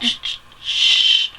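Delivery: slow unvoiced shushing; drawn-out shh to silence the crowd; hushing. Real, not acted. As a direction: hush them, slow and breathy. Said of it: "I rarely talk like this".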